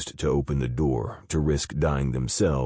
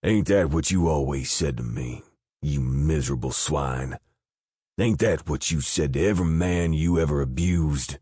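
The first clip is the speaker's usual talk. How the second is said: mocking sneer. Joe Martin taunting the begging captain, gloating. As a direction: rub his old words in his face. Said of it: "Joe Martin laughed".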